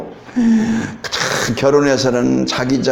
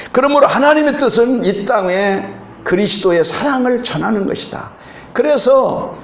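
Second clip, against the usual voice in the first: raised, fervent preaching voice; 3 semitones higher than usual. Acted. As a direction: preach it to the congregation with conviction. Preaching the message.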